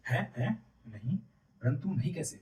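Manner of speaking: verbaasde uitroep. A narrator's reading. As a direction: blurt it out in startled disbelief. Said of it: "आश्चर्य की ध्वनि निकल पड़ती है".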